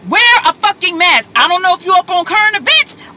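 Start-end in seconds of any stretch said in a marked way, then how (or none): 0.1-1.3 angry. Real, not acted. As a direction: stress on WEAR, angry and firm. Ranting at non-mask wearers.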